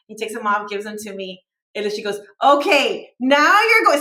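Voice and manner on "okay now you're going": loud, high mock address to someone hard of hearing; imitating raised voice. Haircut lady to boy without hearing aids, raised voice. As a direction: pitch it up and project, imitating her. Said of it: "So she raises her voice".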